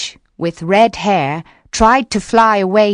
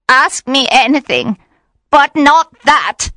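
high, louder begging witch voice; tearful pleading witch; 7 semitones higher, 4 dB louder than usual. A narrator's reading. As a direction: beg him not to ask. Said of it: "She began to cry".

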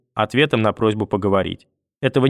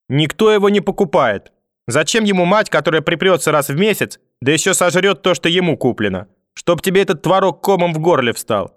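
angry tirade; 6 semitones higher than usual. Acted. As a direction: lash out at the daughter. Grandmother's spiteful tirade. (злобная громкая брань)

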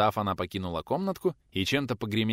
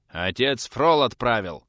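louder, slow, cocky youth; brash announcement; 3 semitones higher, 7 dB louder, slower than usual. A narrator's reading. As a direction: announce it like a smug errand boy. Cheeky youth announces errand.

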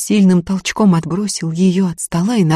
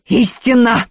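solemn shout; 7 semitones higher, 4 dB louder, slower than usual. A narrator's reading. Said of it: "крикнул Савка".

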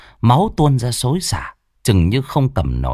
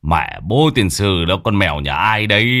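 quát lên. Acted. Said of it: "Ông Tùy quát lên". (ông Tùy quát con mèo trên ban thờ, giọng quát chậm và nặng)

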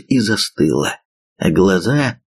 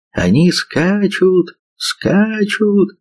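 very high, slow alarm cry; alarmed shout; 11 semitones higher, much slower than usual. A narrator's reading. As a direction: cry out the warning. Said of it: "пронеслось вдруг по рядам ливов".

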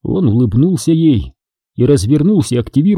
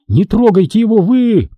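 angry repeat; 8 semitones higher than usual. Acted. Woman repeats her furious demand.

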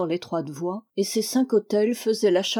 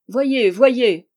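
excited pointing out; 4 semitones higher, 8 dB louder than usual. Acted. Dwarf points out the troops.

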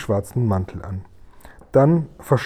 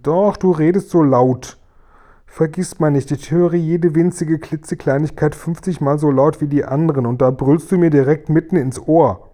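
raised, reproachful complaint; aggrieved scolding; 4 semitones higher, 4 dB louder than usual. Acted. Guri with sensitive ears scolding Sophiechen, aggrieved. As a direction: scold as if your ear hurts.

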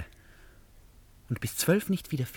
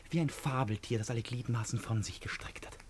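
whisper; 7 dB quieter than usual. Acted. Poetic night view description.

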